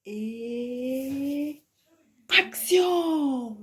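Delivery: high, drawn-out "action" call. Pretend. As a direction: sing out the cue, pitch gliding down. Calls action before a take. (lancer « action » d'une voix aiguë et traînante)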